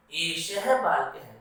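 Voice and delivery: सह बालकः said slowly, each syllable clear; slow Sanskrit demo. Shown as a demonstration. Teacher modelling Sanskrit for the children, slow and clear. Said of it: "क्या बोलेंगे".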